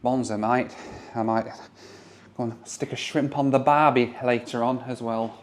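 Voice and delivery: put-on hamming up Aussie slang in a mild Australian accent; terrible Australian accent. Showing viewers the hotel harbour view, in a mock Australian accent. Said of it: "my terrible accent".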